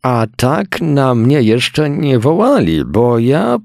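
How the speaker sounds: wysoki, powolny, żałosny chłop; poskarż się jak biedny chłop; głos chudego chłopa. A narrator's reading. Skinny worker complains. (wysoki, płaczliwy głos chłopa)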